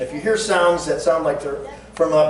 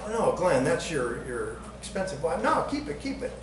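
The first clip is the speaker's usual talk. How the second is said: softer, bashful refusal of a gift; hushed, shy no-no; mock humble protest; 3 semitones higher, 7 dB quieter than usual. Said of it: "And I went".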